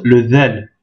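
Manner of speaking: "del" begun like English TH; interdental letter name. Shown as a demonstration. Teacher showing a new Arabic letter, "del" with English TH. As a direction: say "del" with the tongue tip between the teeth. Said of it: "c'est comme le T H anglais".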